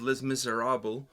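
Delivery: Les Miserables in a French accent; French pronunciation. Shown as a demonstration. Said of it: "pardon my French accent there".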